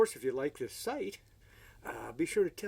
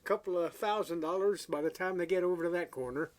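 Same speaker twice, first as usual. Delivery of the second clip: higher, chirpy sales patter; eager salesman; 5 semitones higher than usual. Retold or imitated. Pawn shop salesman quoting guitar prices, high chirpy patter. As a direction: sell it brightly like a pushy clerk. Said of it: "He said".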